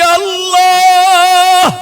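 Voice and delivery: high, loud, long-held cry; calling out to Allah. Acted. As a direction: draw the name out in a soaring plea. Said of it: "ডাক দিয়া বলেছে". (আল্লাহকে লম্বা সুরে উচ্চস্বরে ডাক)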